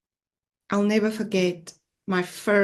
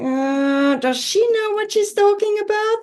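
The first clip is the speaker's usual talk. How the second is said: much higher, mock-baffled voice for the managers; puzzled managers; 13 semitones higher, 4 dB louder than usual. Imitating Houston managers confused by her accent, much higher mock voice. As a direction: play the confused boss doubting her. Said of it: "sometimes they were like".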